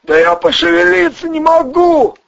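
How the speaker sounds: high, jittery small-time crook; squeaky nervous crook voice; Ryzhy's voice. Acted. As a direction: pitch way up and talk fast like a nervous hustler. Ryzhy protests.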